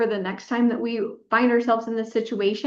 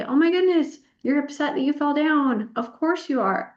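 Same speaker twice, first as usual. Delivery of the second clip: put-on higher, gentle comfort for a child who fell; soothing parent voice; 5 semitones higher than usual. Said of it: "I'd say".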